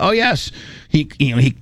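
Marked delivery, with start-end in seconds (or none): 0.0-0.5 mock Indian accent, high; lightly imitating an Indian accent. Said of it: "you can tell the Indian accent there".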